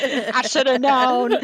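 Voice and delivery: laughing through the words. Real, not acted. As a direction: giggle it out. Laughing at pun.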